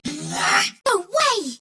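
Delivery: high-pitched cry of disbelief; combat exclamation. Acted. Combat cry in game lines.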